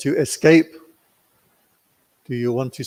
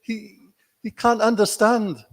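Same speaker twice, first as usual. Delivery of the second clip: very high, offended protest; translator's high, huffy self-defence; indignant translator; 10 semitones higher, 4 dB louder than usual. Retold or imitated. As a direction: defend his English in a squeak of indignation. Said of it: "He said".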